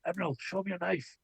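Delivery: soft whispered aside to a friend. Acted. Player's character whispering to Emerald to show her knife, soft whisper. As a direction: lean in and whisper it. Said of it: "I whisper to Emerald".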